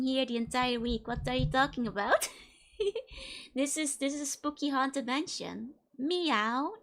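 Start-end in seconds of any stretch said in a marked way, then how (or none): 6.0-6.7 a person's plain meow, not catlike; human meow. Shown as a demonstration. Showing chat her human meow, plain spoken meow. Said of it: "that's my human meow".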